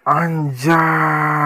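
loud amazed anjay; excited exclaim. Real, not acted. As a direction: burst out in amazement. Amazed by game graphics.

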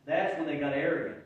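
normal talking voice

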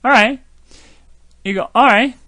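All right said loud, L nearly dropped; a teacher modelling All right for the class; All right spoken casually, the L swallowed; demonstrating all right. Shown as a demonstration. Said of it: "이거 없으면 미국 사람 진짜 얘기 못하죠".

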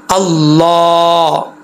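अल्लाह very slow, with "laa" held long; drawn-out, steady अल्लाह; long heavy "laa". Shown as a demonstration. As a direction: join into the doubled L of अल्लाह, then sustain the vowel. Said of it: "लाम के ऊपर जो खड़ा ज़बर है".

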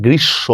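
গ্রীষ্ম as "grish-sho", m silent; doubled consonant. Shown as a demonstration. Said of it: "উচ্চারণ দ্বিত্ব হচ্ছে".

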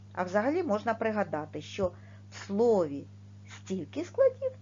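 ordinary delivery

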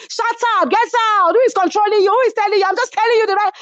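high-pitched mimicked quarrel; rapid-fire high mock scolding; Chioma. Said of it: "that's Chioma's voice".

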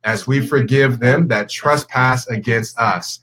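solemn, measured Lord's Prayer recitation; reciting prayer. Real, not acted. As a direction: lead the group in prayer, slow, drawn-out phrases.

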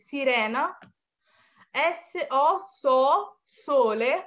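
teacher drilling the S syllables for the class; Italian syllable drill. Shown as a demonstration. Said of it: "আমার উচ্চারণটা যদি আপনারা শুনেন". (শিক্ষকের মতো জোরে জোরে উচ্চারণ করে দেখানো)

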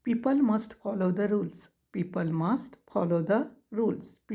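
each word spaced out for writing; slow dictation. Shown as a demonstration. Teacher dictating to students, very slow word by word.

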